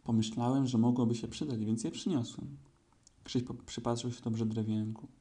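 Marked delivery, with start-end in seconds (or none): 0.0-2.6 louder announcement; raised voice for all; louder to everyone. Acted. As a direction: speak up for the whole group. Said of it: "A potem głośniej już do wszystkich".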